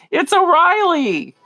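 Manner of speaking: slow, urgent whisper of "It's O'Reilly"; hushed, drawn-out mock whisper. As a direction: whisper the secret name, slowly. Whispered insistence, quoted.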